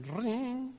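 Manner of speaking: high, rising ringing noise; high-pitched trilled ring; imitated phone ring. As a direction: mimic a telephone ring.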